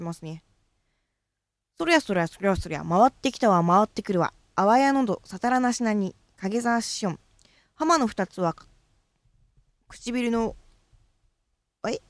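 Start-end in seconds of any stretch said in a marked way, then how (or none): 1.8-10.6 measured, declaiming recital of a classical speech piece; formal recitation. Acted. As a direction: declaim it like a stage elocution exercise. Recites the tongue-twister section.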